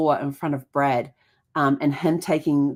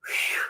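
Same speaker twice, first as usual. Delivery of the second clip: soft relieved exhale; relieved phew; 6 dB quieter than usual. Retold or imitated. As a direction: breathe out in relief. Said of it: "all of a sudden I went".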